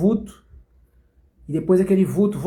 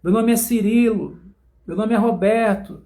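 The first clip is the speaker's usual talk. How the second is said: higher, insistent no, I'm not Jesus; mock denial; 3 semitones higher than usual. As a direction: protest with a grin, listing made-up names. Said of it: "E você".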